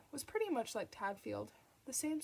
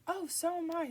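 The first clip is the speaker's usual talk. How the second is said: relieved eager; 8 semitones higher, 6 dB louder than usual. A narrator's reading. Father relieved at royal topic.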